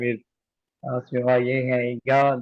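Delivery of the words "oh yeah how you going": imitated Aussie mate's greeting; broad casual Australian accent. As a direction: ask it like an Aussie mate. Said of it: "reply back in the same accent".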